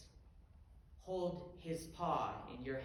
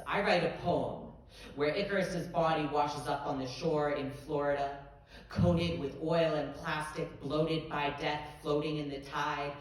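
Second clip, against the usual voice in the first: building intensity; 4 dB louder than usual. Acted. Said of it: "poet builds to climax".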